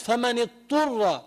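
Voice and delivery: فمن اضطر with the ḍād swallowed, sounding فمن اطر; dropped ḍād. Retold or imitated. Teacher imitates a reader dropping the ḍād. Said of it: "وين راحت الضاد".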